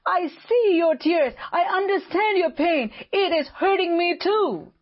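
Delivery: gently acted empathy with the grieving; compassionate. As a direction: voice Jesus sharing their sorrow. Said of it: "His heart was moved with compassion".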